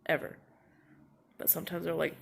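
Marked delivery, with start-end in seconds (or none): 0.1-0.4 louder, exasperated protest; frustrated. Real, not acted. Student insisting she kept her mask on, louder and frustrated. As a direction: push back, voice raised in frustration. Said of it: "I'm so mad".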